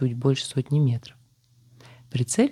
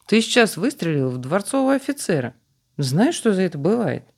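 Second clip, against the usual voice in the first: high, raised indignant voice; indignant scolding; 6 semitones higher than usual. Acted. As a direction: scold him, high and sharp. Officer scolds the hunter.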